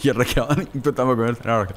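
ordinary talk

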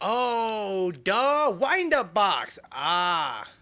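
loud, drawn-out eureka; excited realisation. Real, not acted. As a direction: shout it as it clicks. Sudden realisation shout.

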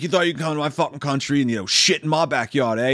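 a hint of a loud angry local; xenophobic rant. Killer to the tourist, mildly loud angry rant. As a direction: bark it at the tourist. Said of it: "And he's like".

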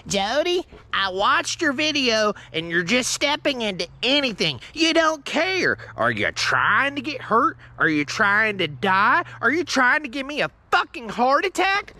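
lightly voiced nagging mom, stretched words; mock exasperated mother, questions climbing; scolding mom. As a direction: imitate a mom getting on to her kid. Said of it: "My mom's constantly getting on to me".

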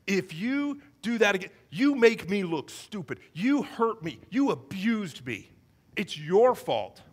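mildly indignant acted accusation; self-righteous scolding, stressing the accusations; arrogant. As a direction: blame the other with measured emphasis. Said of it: "he responds arrogantly".

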